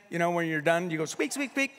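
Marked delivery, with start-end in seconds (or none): 1.0-1.7 mock squeak. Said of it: "that squeaky thing".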